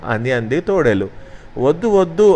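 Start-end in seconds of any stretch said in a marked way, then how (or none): 1.6-2.3 high frightened cry of no; shouting no. Acted. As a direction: pigs crying out from inside the house. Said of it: "అని అరిచి". (భయంతో పైస్థాయిలో అరుపు)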